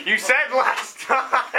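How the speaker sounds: laughing. Real, not acted. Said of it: "can't keep a straight face".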